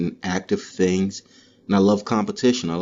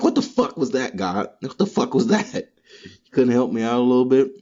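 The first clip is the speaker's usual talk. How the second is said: mock rant at God; 5 semitones higher than usual. Yelling at God after bad day.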